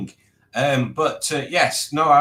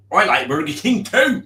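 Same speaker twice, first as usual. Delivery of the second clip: loud caricature of a friend's way of talking; exaggerated send-up, leaning hard on each word; impression of Matt; 3 semitones higher, 6 dB louder than usual. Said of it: "this is the speaker doing an impression of me".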